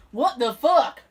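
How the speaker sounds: redneck Southern drawl on a yell; Southern accent. Retold or imitated. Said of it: "I even gave you a Southern accent for that".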